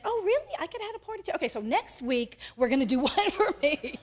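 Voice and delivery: light up like the son who finally gets it; older brother realizing the party is his too, pleasantly surprised; delighted realization. Retold or imitated.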